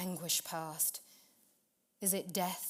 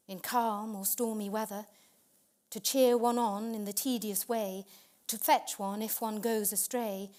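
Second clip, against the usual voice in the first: fervent declaiming; 3 semitones higher, 6 dB louder than usual. A narrator's reading. Poem's closing moral, declaimed.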